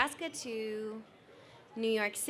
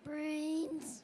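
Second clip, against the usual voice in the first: zombie voice; 6 semitones higher, 8 dB quieter than usual. Pretend. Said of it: "just talk like a zombie".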